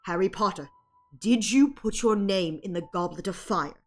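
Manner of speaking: stern concern. Shown as a demonstration. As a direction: ask it like a worried headmaster. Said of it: "a very stern kind of, like, concern".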